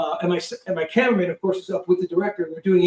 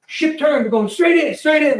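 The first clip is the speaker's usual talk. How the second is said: loud, high crewman's shout; urgent acted shout; imitated yelling; 9 semitones higher, 6 dB louder than usual. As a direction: yell the news over the engines. Crewman yelling over plane noise.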